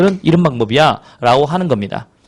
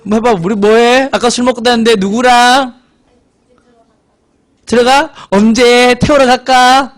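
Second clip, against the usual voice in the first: pestering parent; 6 semitones higher, 3 dB louder than usual. Acted. Parent phoning daughter out drinking, hammed-up pestering. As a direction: pile up sing-song questions like a hovering parent.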